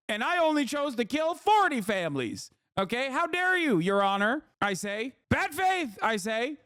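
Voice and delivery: a lightly hammed-up killer pleading to the judge; ridiculing the argument as a killer addressing Your Honor, mock indignant; mock defendant.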